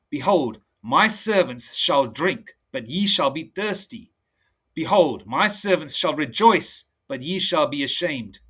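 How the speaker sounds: slow, measured preaching read; solemn preacher reading verse; scripture reading. Acted. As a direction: lay out each line of scripture deliberately. Reads Isaiah aloud slowly.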